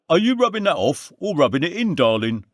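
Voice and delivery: high, bright Londoner greeting his mate; London lad greeting a friend, high and loud; Andy's cheery greeting. A narrator's reading.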